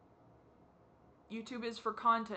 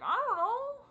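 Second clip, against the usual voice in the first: high, loud burst of frustration; exasperated outburst; 14 semitones higher, 7 dB louder than usual. Acted. Speaker answers the imagined critic's questions, exasperated outburst. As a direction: throw it back, loud and high-pitched. Acted exasperated reply to the challenge.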